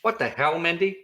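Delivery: high, loud mock outrage; exaggerated disbelief; shocked.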